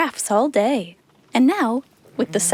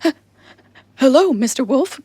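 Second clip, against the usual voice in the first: shocked baker; 3 dB louder than usual. A narrator's reading. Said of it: "The baker was shocked".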